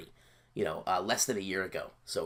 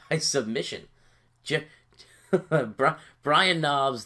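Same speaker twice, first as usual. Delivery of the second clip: laughing; 4 semitones higher, 5 dB louder, much slower than usual. Real, not acted. Laughing at submission win.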